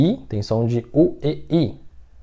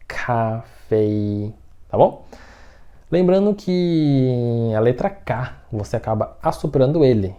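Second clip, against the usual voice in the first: normal talking voice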